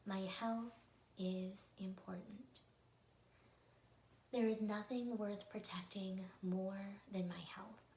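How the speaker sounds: slow, measured recitation with long pauses; meditation affirmation. Acted. Meditation host reciting health affirmations with listeners, slow and calm. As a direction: say each affirmation deliberately, leaving room to repeat.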